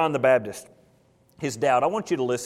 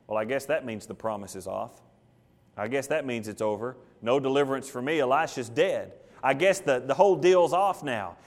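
low, soft, deflated musing; dejected resignation; 5 semitones lower, 4 dB quieter than usual. Acted. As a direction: think aloud as hope drains away. Jehoash hears Elisha has died.

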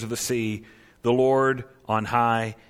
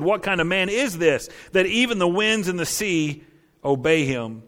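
amazed; 5 semitones higher than usual. Retold or imitated. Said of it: "The men were amazed and said".

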